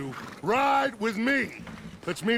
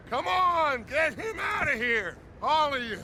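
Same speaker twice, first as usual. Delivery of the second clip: urgent shout; 7 semitones higher than usual. Acted. Ordering men out in battle.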